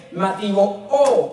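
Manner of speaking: "mativo o" stressed on its final O; accent on the O. Shown as a demonstration. Preacher teaching the congregation a term, "mativo o" accented on the O. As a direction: land the accent on the last O of "mativo o". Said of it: "con acento en la O".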